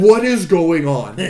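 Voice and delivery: bewildered outcry. Retold or imitated. Viewer's bewildered reaction.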